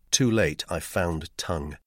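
ordinary delivery, nothing marked

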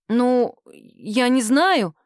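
very slow, drawn-out feigned hesitation; coy reluctance. Acted. Sima teases the desperate boss, coyly stalling. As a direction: play hard to get. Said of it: "Сима решила поломаться".

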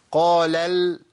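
drawn قال ال stopped on a light lam; thin second lam. Shown as a demonstration. Teacher isolates the mistake, second lam left thin. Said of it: "هيئة الترقيق فضلت معايا للام الثانية".

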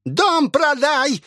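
very high, drawn-out shriek; shrieking old woman. Acted. Possessed old woman screaming from the house for food. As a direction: howl it like a possessed hag. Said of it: "крикнула старуха".

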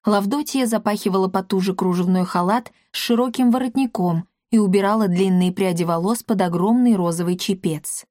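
usual speaking voice

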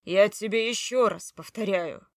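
loud, hammering it home; loud insistence. Acted. Husband insisting to his wife, loud. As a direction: repeat it forcefully.

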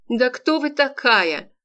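high squealing outrage; shrieking. Acted. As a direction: squeal it out, slow. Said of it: "заверещал профессор".

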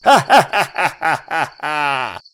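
slow, mocking elf laugh; haughty elf laughter. A narrator's reading. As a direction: laugh at the boy like a lord. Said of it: "Лорд Ланкин расхохотался". (надменный хохот эльфа)

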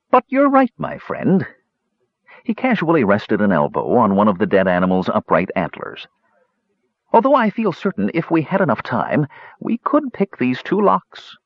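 calm kender pondering the locks; musing Cronin. Acted. Cronin muses on picking the locks, thoughtful.

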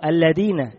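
الذين with the ذ said as د, alladina; dhal as dal. Shown as a demonstration. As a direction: say الذين with a hard d. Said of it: "بالدال".

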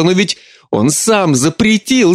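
high tearful, slowing down; sobbing, first запретил; mother sobbing about her husband, запретил said tearfully. Acted.

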